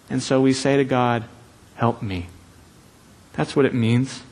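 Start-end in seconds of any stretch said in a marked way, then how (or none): 1.8-2.3 a soft, low plea to God; hushed plea for help; quiet plea. Pretend. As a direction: breathe it out as a small cry for help.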